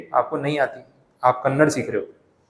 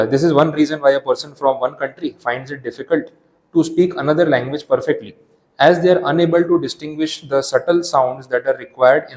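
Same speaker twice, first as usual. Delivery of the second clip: slow, deliberate reading aloud from the book; textbook reading; much slower than usual. Acted. Teacher reading the definition to students, slow and deliberate. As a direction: read each word out slowly for the class.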